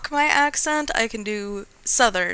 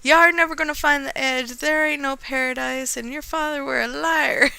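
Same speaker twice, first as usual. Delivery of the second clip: half-hearted pirate captain, slightly raised; piratey yell; 2 semitones higher than usual. Acted. Captain Black yells at Captain Allegra, amateur piratey yell. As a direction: attempt a pirate's taunting shout. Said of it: "He yelled to the".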